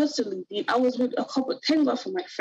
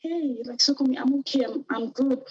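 lightly acted cheerful reassurance, pitched up; mock upbeat, a little higher than usual; put-on cheerfulness; 5 semitones higher than usual. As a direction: pretend to be happy and okay. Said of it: "I was happy. You know, I was showing like".

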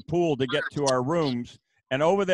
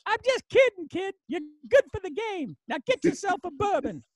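put-on much higher gruff old-coach voice, friendly; Joe Paterno joking. Old coach letting a young coach off the hook, high gruff voice. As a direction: wave off the teasing like a grumpy grandpa. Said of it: "He goes".

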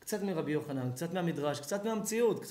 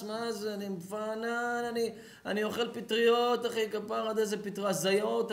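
higher, lazy stoned buddy voice; mock stoner friend; 5 semitones higher than usual. Friend brushing off the rabbi's worry, lightly mocking stoner. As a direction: play the dazed friend brushing you off.

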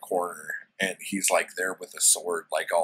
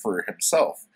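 woman's voice; 3 semitones higher, 3 dB louder than usual. Retold or imitated. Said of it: "she's like".

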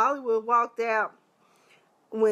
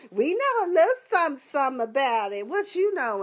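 excited quote; 4 semitones higher than usual. Retold or imitated. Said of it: "She took".

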